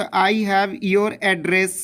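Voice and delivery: example read slowly, word by word; slow example sentence. Shown as a demonstration. Teacher reading an example sentence, slow. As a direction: read the sample sentence for dictation. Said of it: "जैसे मैं एक sentence की बात करूँ तो".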